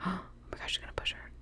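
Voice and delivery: sharp gasp, then a tense whisper. Real, not acted. Player watching a tense cliff scene, gasped whisper. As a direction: hold your breath and whisper in suspense.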